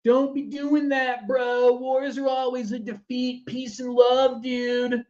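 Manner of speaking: high, drawn-out hippie bro voice; mock a laid-back peace-and-love dude, pitched well up; peacenik dude. Imagined objector to war after an attack, mock hippie dude. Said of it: "And somebody said".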